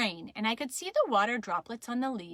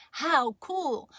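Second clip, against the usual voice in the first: raised, drawn-out exclamation; impressed; 5 semitones higher than usual. Acted. Child watches the snake being photographed, impressed. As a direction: marvel with delight.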